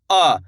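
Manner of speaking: "आ" kept short, not drawn out; short vowel. Shown as a demonstration. Teacher showing beginners the short vowel, "आ" not stretched. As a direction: say "आ" without stretching it. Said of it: "ज़्यादा खींच के नहीं करना".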